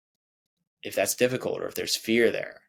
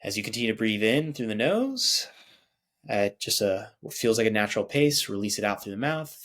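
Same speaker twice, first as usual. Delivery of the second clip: guided meditation. Acted. Meditation guide leading listeners through breathing, soothing. Leads a guided body scan.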